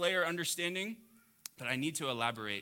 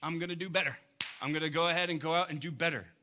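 mock resolve; 3 semitones higher, 4 dB louder, faster than usual. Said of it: "you sitting here going".

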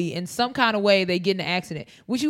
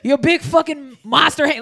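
laughing mock rant; 6 semitones higher, 6 dB louder than usual. Continues ranting, laughing.

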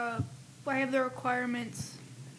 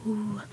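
hooting giggly monkey; 4 semitones lower than usual. Pretend. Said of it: "Stop making the noise".

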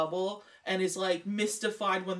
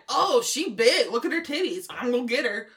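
mock creep voice; 2 semitones higher, 4 dB louder than usual. Mocking Gum's crude thoughts.

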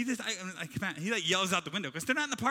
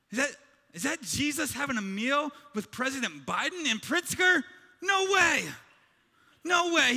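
rising, louder scandalized questions; indignant disbelief; 4 semitones higher, 3 dB louder than usual. Retold or imitated. Churchgoer peering in the window, scandalized and loud. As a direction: gasp at who he's eating with. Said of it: "and you go".

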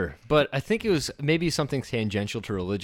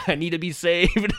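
laughing mock plea; 8 semitones higher, 5 dB louder than usual. Prank persona's narrative.

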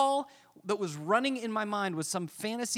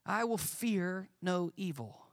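voicing David's calm resolve; 3 semitones higher, slower than usual. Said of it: "and then he says".

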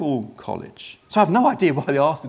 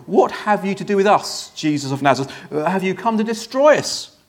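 acted heckler's challenge, somewhat raised in pitch; hate and fear; 3 semitones higher, 4 dB louder than usual. Man at the back shouting at the teacher, hate and fear. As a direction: spit it out with a touch of dread. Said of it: "spat out with hate and fear".

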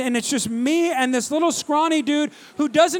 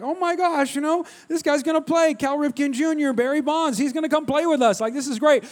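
put-on excited kids; 2 semitones higher than usual. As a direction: retell it like a thrilled kid. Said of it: "like, we were excited".

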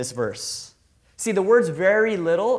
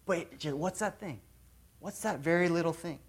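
much softer, musing to yourself; inner voice; 7 dB quieter than usual. Pretend. Believer wondering to himself about God's prompting, hushed. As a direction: quietly puzzle over a small nudge. Voicing listener's inner thought.

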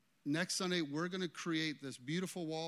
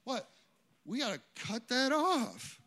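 higher, slow, declaring voice; God making a firm call; mock divine verdict; voicing God; 9 semitones higher, 7 dB louder, slower than usual. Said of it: "And God goes".

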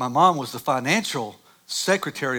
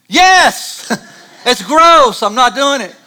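much higher, much louder yell breaking into laughter; laughing mock scream of disgust; 12 semitones higher, 15 dB louder, much slower than usual. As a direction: shriek it like a disgusted teen, laughing. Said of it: "I wanted to scream".

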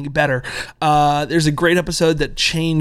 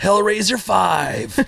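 cheesy blurb voice; 4 semitones higher, much slower than usual. Retold or imitated. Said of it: "I guarantee that one from Nightbreed is".

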